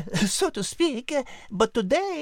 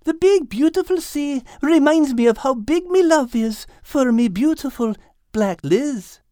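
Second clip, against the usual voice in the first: louder, lovestruck goofy voice; 4 dB louder than usual. Acted. Al declaring love to Liz, goofy. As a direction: grin through it, besotted. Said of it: "said Al with a goofy grin".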